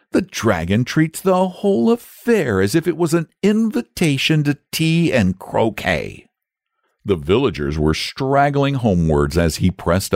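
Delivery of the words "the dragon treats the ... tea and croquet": put-on high, excited young boy; a cheeky lad teasing; eager boy voice. A narrator's reading.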